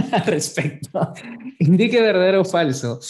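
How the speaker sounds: fast, wired and giggly; too much caffeine. Real, not acted. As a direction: rush it like you're over-caffeinated. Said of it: "que tomé mucho café".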